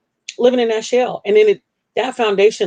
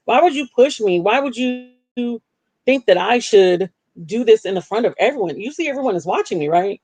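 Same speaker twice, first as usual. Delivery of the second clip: mock angry; 4 semitones higher than usual. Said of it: "I was so angry with him".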